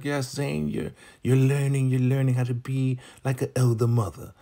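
high-pitched, pleased mentor impression; Elder Mother Marva. Elder mother pleased with her learner, high approving imitation. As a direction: praise a pupil in a high put-on voice. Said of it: "Elder Mother Marva is so pleased".

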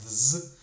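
"з" as a joined buzz, th running into z; sound combination. Shown as a demonstration. Teacher showing the hard combination, "з" as a th-z buzz. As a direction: sound out the cluster "з" loudly on its own. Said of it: "І це поєднання".

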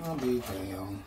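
gasp, then mutter it in disbelief; startled gasp. Real, not acted. Finding the wet bag in the kitchen, startled gasp.

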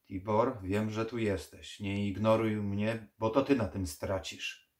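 loud, urgent call into the darkness. Acted. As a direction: call him out of the earth, demanding. Necromancer calls into the ground.

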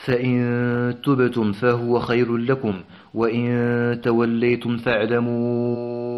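slow chanted tajweed recitation; Quran recitation. Shown as a demonstration. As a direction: recite the verse in measured, melodic chant. Teacher recites next verses.

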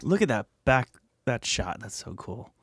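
normal talking voice

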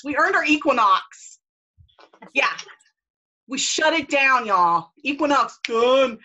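loud, slow triumphant cheer; excited announcement. Real, not acted. Leader announcing the team's prize, excited and loud. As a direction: shout the win proudly to the team. Announcing team won the Equinox.

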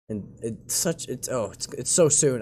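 real halting, stumbling false starts; flustered stuttering. Real, not acted. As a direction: trip over the words under stress. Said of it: "I'm stuttering so much".

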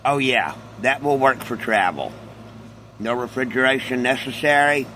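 talking with a mouth full. Real, not acted. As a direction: talk through a bite of cereal. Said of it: "you're about to hear me, uh, talk with my mouth full".

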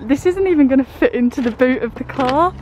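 breathless after loading the car; a little winded, catching breath. Real, not acted. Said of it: "So out of breath as well".

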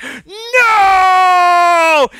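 long, high wail of refusal; drawn-out high mock-childish protest; protesting kid. Kid fighting over game turn.

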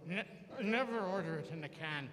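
lightly voiced Irish dad advice; a hint of an Irish father's brogue; Irish father advising his son on his knee, lightly voiced. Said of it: "and he goes".

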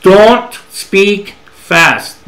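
very slow, every word drawn out; slow teaching demo; demonstrating slow speech. Shown as a demonstration. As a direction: show the class what slow sounds like. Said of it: "speak slowly".

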